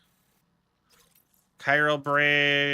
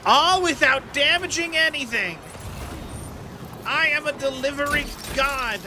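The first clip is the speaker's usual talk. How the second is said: triumphant boast; 9 semitones higher than usual. Real, not acted. Boasting after a clean delivery run.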